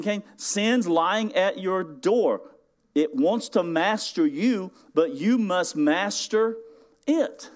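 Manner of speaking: slow, solemn divine warning; God warning Cain. Retold or imitated. God cautions Cain about sin, slow solemn warning. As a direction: speak it slow and weighty as God. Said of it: "He said to Cain".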